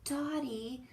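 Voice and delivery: high, very slow plea; pleading. Acted. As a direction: drag it out, fed up and pleading. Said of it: "says Quincy".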